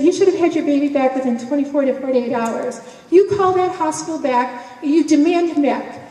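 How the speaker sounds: imitating an outraged man giving orders; mad. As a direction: demand it firmly, voice lifted. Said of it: "he was mad when he found out".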